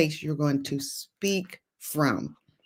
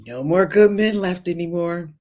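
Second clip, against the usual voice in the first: mock complaint; 5 dB louder than usual. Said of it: "you just prophesied your future".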